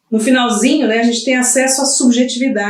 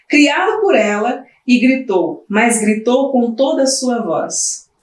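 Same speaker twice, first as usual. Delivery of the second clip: lightly heightened reading of a prologue; dramatic reading; 3 semitones higher than usual. Acted. Lecturer reading the prologue aloud, lightly dramatic. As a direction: read it like the opening of a play.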